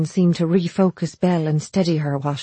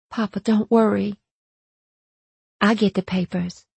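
reassuring; 3 semitones higher than usual. A narrator's reading. Belle reassures her angry father.

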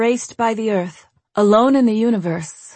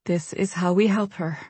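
gentle; 4 dB quieter than usual. Acted. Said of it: "she said gently".

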